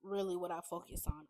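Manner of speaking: tripping over the words; stumbling stutter. Real, not acted. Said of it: "I don't know why I keep stuttering".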